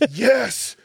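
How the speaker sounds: high-pitched imitation of a woman; eager complainer.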